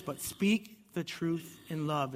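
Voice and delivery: slow reading. Acted. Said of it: "He says".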